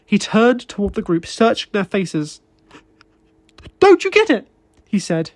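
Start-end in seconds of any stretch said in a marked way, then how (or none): 3.8-4.5 high, loud, desperate demand; anguished outburst. A narrator's reading. David pleading loudly with his unmoved co-workers. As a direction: shake them into seeing it, voice straining high.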